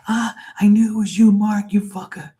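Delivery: high, mock-angry Scouse shout; Liverpool accent. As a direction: imitate an exasperated Liverpool foreman. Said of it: "He used to get so mad at me".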